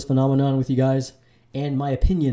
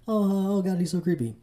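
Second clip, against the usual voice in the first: put-on Valley Girl voice; 7 semitones higher than usual. Mocking girlfriends' laughing reaction.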